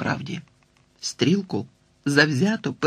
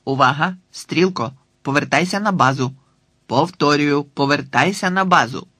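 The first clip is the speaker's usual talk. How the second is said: louder, crisp radio call; radio command; 4 dB louder than usual. Acted. Boy commanding his dog over the phone like military radio.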